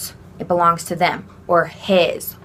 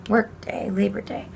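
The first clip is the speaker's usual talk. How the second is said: whispered gloss; 4 dB quieter than usual. Shown as a demonstration. Aside gloss.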